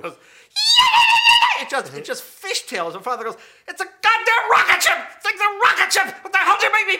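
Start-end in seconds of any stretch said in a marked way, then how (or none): 0.1-1.6 very high, loud drawn-out squeal; imitated car screech. Dad steps on the gas, piercing mimicked squeal. 3.7-7.0 high, full-volume outraged yelling; screaming angry dad. Retold or imitated. Dad screams at son as the car fishtails, outraged. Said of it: "now he's just screaming at me".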